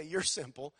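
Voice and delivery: a teasing, accusing jab at someone else; mock pointing at the preacher. Shown as a demonstration. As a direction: point the finger and tease. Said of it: "don't point at me and say".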